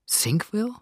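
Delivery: a bewildered, rising echo of Sinkville; astonished echo. A narrator's reading. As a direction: repeat the strange name in amazement. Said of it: "wiederholte Marie erstaunt".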